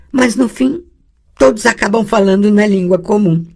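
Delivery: a pupil talking back to her teacher; young girl objecting. Acted.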